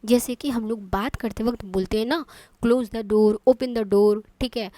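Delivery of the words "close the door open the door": firm order. Shown as a demonstration. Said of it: "order दे रहे हैं".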